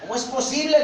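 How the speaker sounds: high-pitched, astonished question; incredulous, voice lifted well up; stunned disbelief. Acted. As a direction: react as if dumbfounded. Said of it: "Pilato se queda pasmado".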